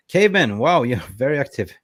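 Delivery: high, loud call of the name; excited shout-out. Real, not acted. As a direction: call out the name to a regular, delighted. Greeting a chat regular excitedly.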